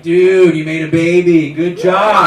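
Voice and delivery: loud mock bro congratulations; hearty congratulating. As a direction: cheer him like a back-slapping buddy. Acting hearty guy friends congratulating him.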